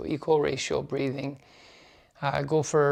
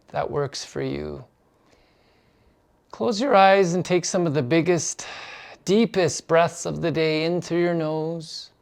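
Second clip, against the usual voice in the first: measured guiding voice with long pauses; unhurried meditation instruction; guided meditation. Acted. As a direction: lead them gently into stillness. Starts leading the meditation.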